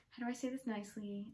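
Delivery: whispering to yourself; coaching yourself to stay calm, whispering; whispered self-talk. Retold or imitated. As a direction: hush it under your breath. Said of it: "and be like".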